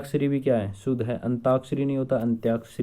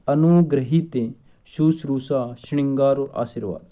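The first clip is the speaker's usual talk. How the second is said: अनुग्रहित said louder and slowly, falling; slow, emphatic; 4 dB louder than usual. Shown as a demonstration. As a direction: stress अनुग्रहित as the key word. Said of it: "अभी मैंने बताया था". (अनुग्रहित धीरे और ज़ोर से)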